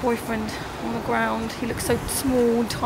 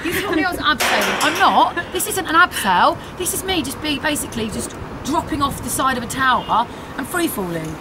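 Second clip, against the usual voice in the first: high, frantic protest; panicked outrage; 5 semitones higher than usual. Real, not acted. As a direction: disbelief rising into panic. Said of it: "I've been duped".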